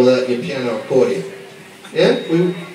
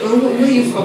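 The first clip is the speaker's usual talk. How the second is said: faux French accent; 6 semitones higher than usual. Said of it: "I put on my faux accent".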